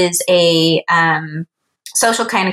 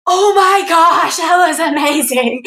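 much higher, slow and breathless with wonder; awed excitement; 8 semitones higher, slower than usual. Retold or imitated. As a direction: imitate the friend stunned with delight. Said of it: "he was like".

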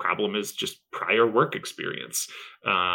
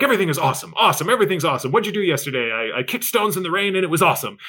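upbeat, a bit louder, a touch higher; mock gushing American; 5 semitones higher, 3 dB louder, faster than usual. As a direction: ham up the everything-is-awesome cheer. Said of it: "they're like".

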